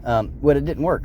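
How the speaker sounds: panting between words; winded, catching breath. Real, not acted. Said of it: "I'm out of breath, man".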